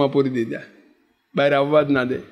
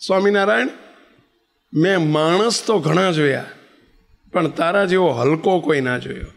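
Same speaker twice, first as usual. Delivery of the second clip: a hint of a furious old woman; angry old woman. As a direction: scold him in front of the assembly. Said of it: "સભા વચ્ચે આવીને એમ કહે છે".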